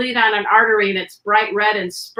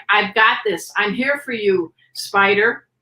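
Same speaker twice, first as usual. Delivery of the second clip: a lower, steady reassurance to the dog; calm reassuring voice; 3 semitones lower than usual. Shown as a demonstration. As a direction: soothe a hurt pet. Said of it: "say things in a calm voice like".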